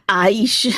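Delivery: careful "Aish" with rising end; practising pronunciation. Shown as a demonstration. Speaker practising with viewers, "Aish" carefully pronounced. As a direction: sound out "Aish", lifting the end. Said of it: "I'm practicing with you guys".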